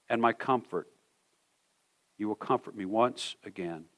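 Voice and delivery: measured devotional reading voice, slowing and softening to the end; scripture reading. Acted. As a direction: read it over them like a prayer. Pastor reads Psalm 71 aloud.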